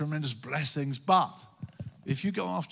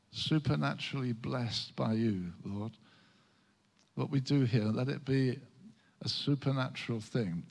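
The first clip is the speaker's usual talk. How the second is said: prayer. Acted. Leads opening prayer.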